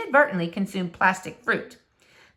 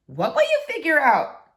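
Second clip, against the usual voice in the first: puzzled neighbour; 5 semitones higher than usual. Acted. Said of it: "said Missus Tickham".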